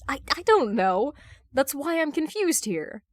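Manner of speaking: flustered admission, pitch climbing; uncomfortable, confused. Acted. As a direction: stumble through it, confused. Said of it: "discomfort in his voice".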